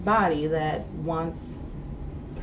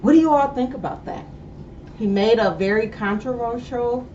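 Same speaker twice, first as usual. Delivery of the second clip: with braces; 4 semitones higher, 5 dB louder than usual. Real, not acted. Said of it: "I'm sorry, I got braces on".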